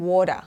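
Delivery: WATER with a D sound in the middle. Shown as a demonstration. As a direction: turn the T of WATER into a D. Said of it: "ไม่เปลี่ยนไปเป็นดอเด็กนะคะ". (water ออกเสียง T เป็นดอเด็ก)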